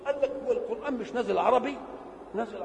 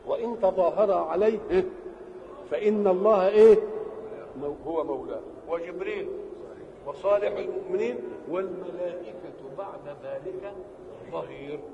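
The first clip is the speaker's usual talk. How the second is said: Quran recitation. Shown as a demonstration. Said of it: "أن الله قال".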